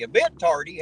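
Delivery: tardy thrown back as a loud, disbelieving question; incredulous. Shown as a demonstration.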